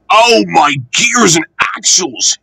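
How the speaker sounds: groaning. A narrator's reading. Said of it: "he groaned".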